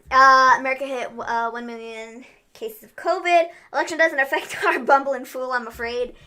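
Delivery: mock Trump news read; a hint of Trump; Trump impression. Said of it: "had to listen to me first".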